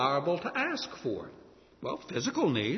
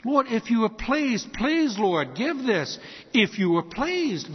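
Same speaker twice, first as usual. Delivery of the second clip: raised, fervent petition; humble pleading prayer; 6 semitones higher, slower than usual. Shown as a demonstration. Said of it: "when we request things of God".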